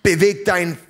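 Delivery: dismissive, pushy command; hammed-up rude shove; mock rude command. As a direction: shove her with a contemptuous snap. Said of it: "sagt, pff".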